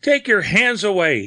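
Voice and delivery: very high, panicked cry; desperate, high-pitched begging; panted plea. A narrator's reading. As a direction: fight off a strangler. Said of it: "he panted".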